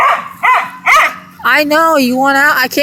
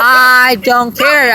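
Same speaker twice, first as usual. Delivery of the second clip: mock shout; much slower than usual. Scolding the dog Jasmine.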